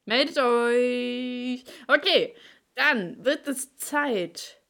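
slow, drawn-out hype announcer; wrestling announcer. Pretend. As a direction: call it out like a ring announcer. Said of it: "ich klinge wie so ein Wrestler-Ansager".

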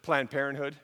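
retelling an eager staffer's surprised report; excited. Retold or imitated. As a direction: blurt it out like an excited coworker. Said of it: "excitedly knocked on the door".

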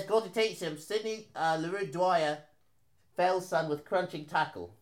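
put-on measured English-accented headline read; put-on English accent, softly delivered. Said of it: "You have to read it in English accent".

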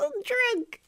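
very high falsetto woman; dame voice. Acted. Guy voicing the dame walking into the bar, falsetto. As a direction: play the drunk dame in a squeaky voice.

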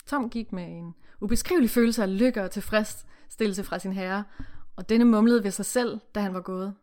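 steady read-aloud narration with character lines; story reading. Acted. Reading the novel to the co-host, read-aloud narration.

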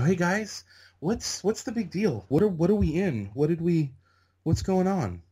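high-pitched, imitating his clueless younger self; baffled questioning. New kid asking excited extras what's going on, high and baffled. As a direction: pitch it up in innocent confusion.

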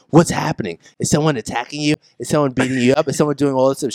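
freaking-out mother. Retold or imitated. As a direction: imitate a worried mom firing questions. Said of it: "she's, like, freaking out".

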